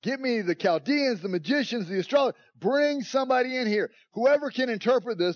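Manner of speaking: a frightened king shouting orders; king crying out. Retold or imitated. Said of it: "So the king cries out".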